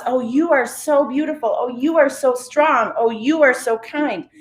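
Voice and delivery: mock-gushing singsong flattery; gushing compliments. Acts out gushing compliments to others.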